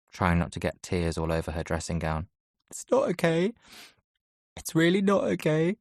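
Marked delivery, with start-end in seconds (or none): 2.7-5.8 high, teary voice breaking on not; crying into his sister's shoulder, high and broken. A narrator's reading. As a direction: sob it into her shoulder. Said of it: "She lets me cry into her shoulder".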